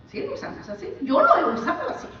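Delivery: laughing through the confession; laughing admission. Real, not acted. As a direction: own up with a chuckle. Admits with laughter. (riéndose al confesar)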